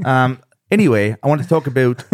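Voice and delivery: lightly put-on Canadian accent; mild mock Canadian vowels. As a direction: slip into a joke Canadian accent. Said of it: "your best Canadian accent".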